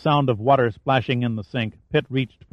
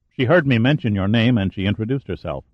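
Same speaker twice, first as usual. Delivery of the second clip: casual. Acted. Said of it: "sound extremely casual".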